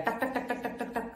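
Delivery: mechanical tak tak tak like a rote parrot; parrot-like rattle. Shown as a demonstration. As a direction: tick it off like a parrot reciting. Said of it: "जैसे कोई रटा हुआ तोता". (रटे हुए तोते की तरह टक टक)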